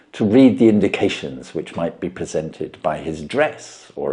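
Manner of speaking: measured storyteller reading; story narration. A narrator's reading. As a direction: tell it like a classic mystery read aloud.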